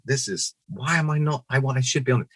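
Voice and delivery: sulky. Retold or imitated. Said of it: "I was going".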